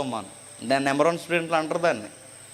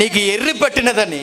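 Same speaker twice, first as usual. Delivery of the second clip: mock accusation; 4 semitones higher, 3 dB louder than usual. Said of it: "గొప్ప శబ్దం అంటే అరిచేస్తున్నాడు".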